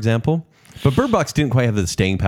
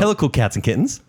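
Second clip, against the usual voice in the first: Joe Exotic impression; 4 semitones higher than usual. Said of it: "way better intro".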